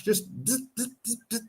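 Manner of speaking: soft buzzing zzz like clippers; buzzing trimmer noise. Shown as a demonstration. Showing a friend how to trim the moustache, soft clipper buzz. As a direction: imitate a beard trimmer quietly. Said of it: "imitating trimmer buzz".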